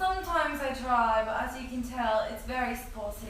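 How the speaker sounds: put-on upper-class English; playful attempt at posh British; posh British accent. Shown as a demonstration. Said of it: "but, like, the posh kind".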